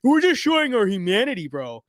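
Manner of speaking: a mock sarcastic voice for the other side; mocking commenter voice. Streamer to viewers, mimicking a smug commenter with a sneer. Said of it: "It's like".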